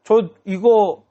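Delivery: 높고 느리게 늘어지는 억지 변명; 높은 목소리로 쩔쩔매며 변명하기; 변명하는 목소리. Acted. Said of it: "핑계를 댔어요". (사무엘에게 혼나자 높고 느리게 늘어놓는 억지 변명)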